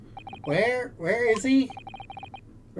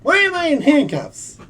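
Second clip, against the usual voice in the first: high, loud cry of disbelief; panicked shock; 10 semitones higher, 4 dB louder than usual. Acted. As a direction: yell it as if you just saw the cuffs on your wrists. Hero wakes up handcuffed.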